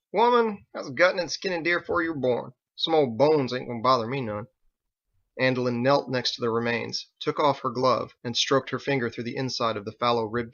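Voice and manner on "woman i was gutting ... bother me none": a high, scoffing "Woman", then tough-guy scorn; a weathered hunter brushing her off; higher scoffing voice; gruff old hand. Acted. Biggs gruff retort.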